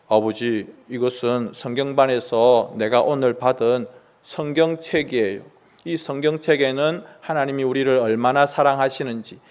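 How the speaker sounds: low, soft, careful explanation; timid reply. Acted. Son quietly explains the Bible to his angry father, soft and timid. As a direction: answer gently so as not to anger him.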